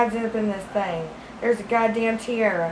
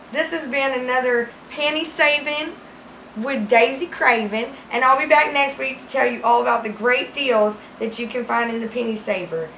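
lightly hammed-up local show host closing; a hint of a cheery local TV sign-off. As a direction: wrap up the segment like a small-town host. Sign-off as Penny Saver host.

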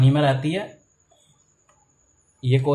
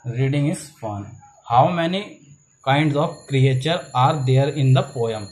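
slow, word-by-word textbook reading; measured classroom reading with spaced words; slow read-aloud; much slower than usual. Acted. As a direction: read the question out slowly for young pupils. Reads textbook question aloud.

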